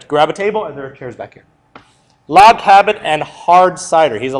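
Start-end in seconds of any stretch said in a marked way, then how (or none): 2.3-4.2 "Log cabin and hard cider" said slowly, each word laid down; slow emphatic repeat. Shown as a demonstration. Teacher repeats the test slogan for students, slowly. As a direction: spell the slogan out slowly so it sticks. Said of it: "know that log cabin and hard cider stuff".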